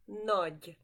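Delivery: nagy said as nahj, short open a; Hungarian nagy. Shown as a demonstration. Teacher modeling nagy for students to repeat. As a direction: say nagy slowly and clearly for learners. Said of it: "Say it with me".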